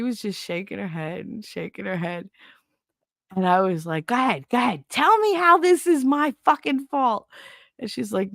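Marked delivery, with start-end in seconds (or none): 4.1-7.3 higher, challenging mock fury at mother; retold defiant anger. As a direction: throw it back at her, daring her. Arguing with mother in story.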